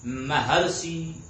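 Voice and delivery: महर्षि drawn out slowly so the अर is heard; slow sounding out. Shown as a demonstration. Teacher sounding out महर्षि for the class. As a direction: stretch out महर्षि. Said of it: "अर की ध्वनि आ रही है".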